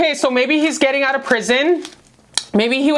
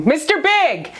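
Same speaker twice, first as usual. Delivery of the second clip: Mister Big blurted out higher; excited song title; 5 semitones higher, slower than usual. Retold or imitated. Reader naming a song for the cards, excited. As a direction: call out the song name with a spark of excitement. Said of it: "That's another song".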